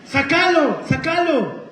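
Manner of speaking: high, insistent mock order; imitated urgent plea. Mother ordering her son to remove the toad, imitated urgency. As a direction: play a panicky mom demanding help.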